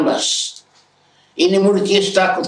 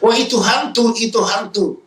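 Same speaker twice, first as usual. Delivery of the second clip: mock frightened shout; 6 semitones higher than usual. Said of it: "Mereka teriak".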